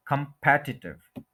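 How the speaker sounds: कॉम्पिटिटिव as kum-PET-i-tiv; कॉम्पिटिटिव with strong second syllable PET; stress on second syllable. Shown as a demonstration. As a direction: hit PET in कॉम्पिटिटिव, keep the rest short. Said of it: "second के ऊपर stress है".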